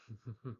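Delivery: soft mimicked chuckle; imitated character laugh. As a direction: quietly act out the character's laugh. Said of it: "He's like".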